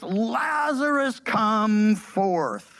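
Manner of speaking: mild retold shout, names held long; loud cry. Preacher reading Jesus calling the dead man out, loud cry. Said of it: "he cried out with a loud voice".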